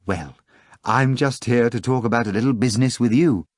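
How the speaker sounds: high, breathless excited telling; agitated retelling. A narrator's reading. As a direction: rush through the story in a nervous panic. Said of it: "quivering in agitation".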